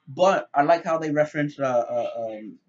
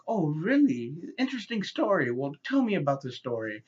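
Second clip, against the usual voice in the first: belittling; 3 semitones higher than usual. Retold or imitated. Interviewer humouring a patient's crazy story, belittling. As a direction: humour him as if he were deluded. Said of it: "It sounds so damn belittling".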